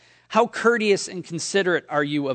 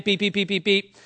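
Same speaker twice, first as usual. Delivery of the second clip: register beeps; 2 semitones higher than usual. Retold or imitated. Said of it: "all you hear is beep".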